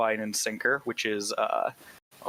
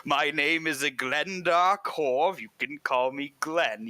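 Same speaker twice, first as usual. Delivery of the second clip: Glenn the innkeeper; 6 semitones higher, slower than usual. Acted. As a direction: greet them like an overeager barkeep. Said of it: "he looks at you and he says".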